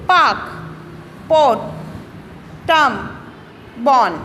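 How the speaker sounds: "पार्क", "पोर्ट", "बॉर्न" with a long vowel and no R; silent R before consonant. Shown as a demonstration. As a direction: stretch the vowel, swallow the R. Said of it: "कैसे read करेंगे इसको देखिए". (व्यंजन से पहले का आर मत बोलो, जैसे "पार्क")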